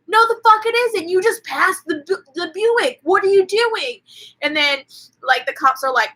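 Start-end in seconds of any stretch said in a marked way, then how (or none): 0.1-4.0 angry husband. Retold or imitated. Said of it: "And he goes".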